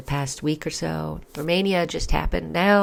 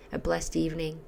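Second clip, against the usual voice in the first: whispered; 7 dB quieter than usual. Real, not acted. Closing blessing to viewers.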